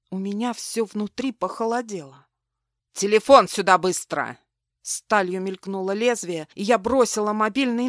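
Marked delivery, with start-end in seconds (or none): 2.9-4.4 резкий громкий приказ из темноты; рявкнуть с угрозой; грубый приказ. Acted. Незнакомец с ножом угрожает. (громкий грубый приказ)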